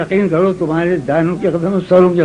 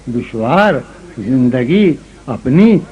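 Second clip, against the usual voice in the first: ghazal recitation; 3 semitones lower than usual. Acted. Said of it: "یہ غزل سنو".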